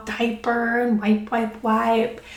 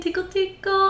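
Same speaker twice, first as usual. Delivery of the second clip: tickle tickle; 9 semitones higher than usual. Shown as a demonstration. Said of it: "let my voice go up and down and make it fun".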